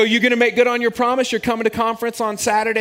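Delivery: playful gloating demand; triumphant challenge. Retold or imitated. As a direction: press them to keep their word. Holding boys to promise.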